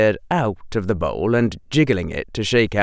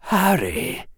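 put-on helpless old wizard; 9 semitones higher than usual. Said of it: "voice starting to sound a little helpless".

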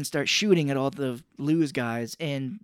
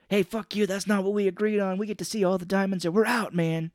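raised-pitch mock argument; acted arguing; 6 semitones higher than usual. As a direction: argue heatedly on someone's behalf, retold. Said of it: "they start arguing, and Bien is doing the arguing".

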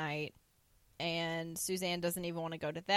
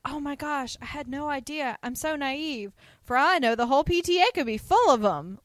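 higher voice building to loud; acted gushing dismay, growing louder; mock flustered; 6 semitones higher, 7 dB louder than usual. Mary Jo reacting after the PTA mother leaves, mock flustered. Acts embarrassed exclaiming after misunderstanding.

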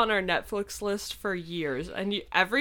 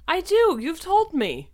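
triumphant; 12 semitones higher, 6 dB louder than usual. Real, not acted. Playful triumphant retort.

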